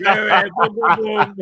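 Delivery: put-on loud laughing Spanish-accent "boom"; mock Spanish accent. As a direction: ham up Fabrizio's catchphrase in a Spanish accent. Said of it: "Matt went Spanish for a minute".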